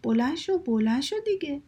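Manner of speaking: storyteller's mildly pushy father; lightly impatient wake-up call. Acted. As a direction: nag someone lightly out of bed. Father rousing sleeping ruler.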